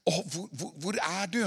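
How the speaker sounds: put-on a grieving father searching for his child; sore calling. Shown as a demonstration. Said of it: "en sårhet i det ropet". (sårt, lavt rop)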